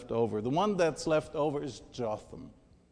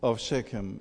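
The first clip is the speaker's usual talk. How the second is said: loud cry; 2 semitones higher, 8 dB louder, slower than usual. Acted. Preacher reads Jotham calling to the lords from the mountain, crying out loudly. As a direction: call out loudly to a far-off crowd. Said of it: "and cried out loudly".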